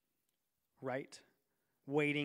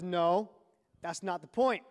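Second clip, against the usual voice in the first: stern dad; 5 dB louder than usual. Retold or imitated. Dad rejecting the boy's excuse.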